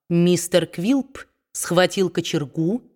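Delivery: ordinary delivery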